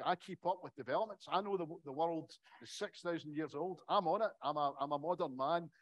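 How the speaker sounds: preen like a smug know-it-all; smug Willie. Retold or imitated. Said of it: "he's got Willie being all smug".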